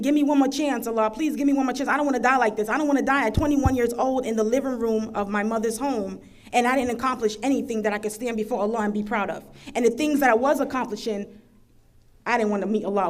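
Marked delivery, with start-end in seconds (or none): 0.0-9.4 pleading. Retold or imitated. Praying on the floor for one more chance, pleading. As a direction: plead with Allah as if for your life. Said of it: "begging Allah, pleading".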